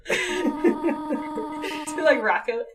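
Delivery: slow, high nervous giggle; nervous laugh. Shown as a demonstration. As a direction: push a nervous chuckle through the words. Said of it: "There's the nervous laughter".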